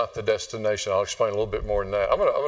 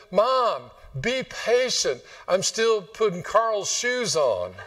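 put-on little boy's reply; 8 semitones higher, much slower than usual. Little Johnny replies to mom.

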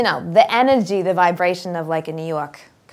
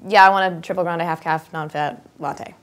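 pushy coffee order; 4 dB louder than usual. Retold or imitated. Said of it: "You don't just go up and say".

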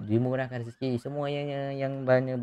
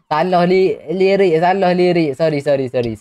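loud, high, laughing "salah lirik"; laughing apology; 6 semitones higher, 10 dB louder than usual. Real, not acted. Streamer laughing after singing the wrong lyric.

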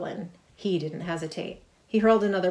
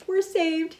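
much higher, louder squeal of relief; 11 semitones higher, 4 dB louder than usual. A narrator's reading. Harry cheering the heroes on, a joyful squeal. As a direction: squeal with joy. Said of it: "he squealed".

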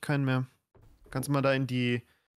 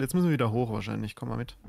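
bored; 3 semitones lower than usual. Real, not acted. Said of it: "Du sagst das so gelangweilt".

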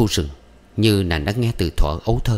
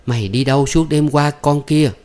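higher, louder scolding; scolding mother; 7 semitones higher, 4 dB louder than usual. A narrator's reading. Mother scolding Thuận for staying out all night, high and loud. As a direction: scold the wayward daughter sharply.

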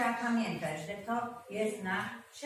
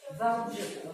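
Wałbrzychu with the weight on BRZY; Wałbrzychu, penultimate syllable BRZY leaned on; stress on the second-to-last syllable. Shown as a demonstration. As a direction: model Wałbrzychu clearly as Wał-BRZY-chu, stressing the middle syllable. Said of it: "Proszę powiedzieć Wałbrzychu".

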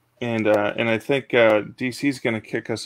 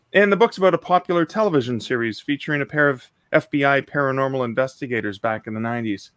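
even, descriptive audiobook-style reading; story narration. Acted. Narrator setting up Jack in his basement den, storytelling. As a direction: narrate the scene evenly, phrase by phrase.

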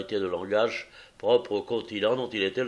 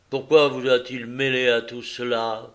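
mildly brusque question, a touch louder; a curt, mild snap; 3 semitones higher, 5 dB louder than usual. Acted. Visitor curtly challenging Holmes, mildly brusque. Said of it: "d'un ton brusque".

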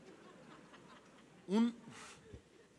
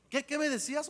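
dead man waking; 7 semitones higher than usual. Retold or imitated. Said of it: "yo me imagino que así fue".

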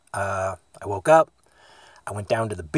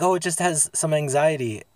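lightly voiced, higher excusing voice; dog owner imitation; 5 semitones higher than usual. Imitating a woman excusing her dog, light higher voice. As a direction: lift the pitch a little, as the owner. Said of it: "then she's like".

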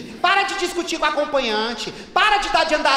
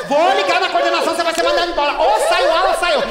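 louder threat; 4 dB louder, faster than usual. Acted. Threatening to call management.

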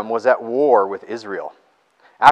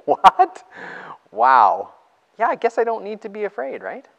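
astonished; 8 semitones higher, 4 dB louder than usual. Retold or imitated. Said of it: "and you're like".

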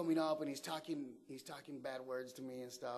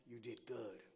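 soft, lower aside; retold whisper; 3 semitones lower, 8 dB quieter than usual. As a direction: lightly imitate a word in someone's ear. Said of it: "he whispers in my ear".

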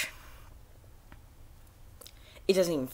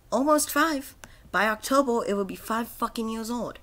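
higher and louder, indignant; rising outrage; 6 semitones higher, 3 dB louder than usual. Real, not acted. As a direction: push it up in disbelief. Outrage at game's age.

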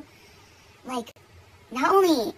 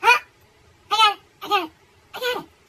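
loud high insistence; 9 semitones higher, 7 dB louder, faster than usual. Retold or imitated. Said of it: "I'm like".

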